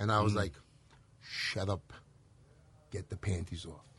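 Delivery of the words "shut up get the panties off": slow, hushed whisper with deliberately slowed words. Speaker retells the second try a man asked for, with slowed-down speech. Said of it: "I slowed down my speech".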